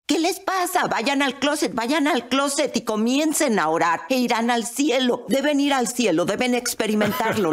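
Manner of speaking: high, insistent urging; retold exaltation. Mother insisting her family go and pray, exalted. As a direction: press them eagerly, pitch lifted. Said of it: "tan exaltada".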